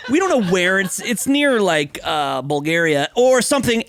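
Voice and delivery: a light mock Bulgarian accent. Joking about Saskatchewan in a mock Bulgarian accent. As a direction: toss it off in a half-hearted Bulgarian accent. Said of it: "that's my Bulgarian accent".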